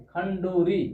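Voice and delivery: खंडूरी drawn out slowly; slow model of खंडूरी; careful pronunciation. Shown as a demonstration. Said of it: "ऐसे बोलते हैं इसको हम".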